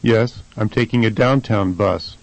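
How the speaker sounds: "downtown" stressed on DOWN; first-syllable stress. Shown as a demonstration. Answering the question about going downtown, stress on DOWN in "downtown". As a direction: shift the weight forward to DOWN in "downtown". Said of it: "the first syllable is stressed".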